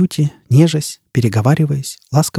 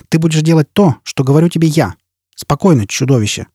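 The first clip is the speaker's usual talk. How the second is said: stern command; 5 semitones higher than usual. Acted. Jiz slaps Foyle, orders him.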